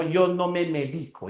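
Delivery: "medico" stressed on DI inside the sentence; stress on middle syllable. Shown as a demonstration. Teacher giving an example sentence, "medico" stressed on DI. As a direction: land on the DI of "medico". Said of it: "Cambia el acento y cambia el significado".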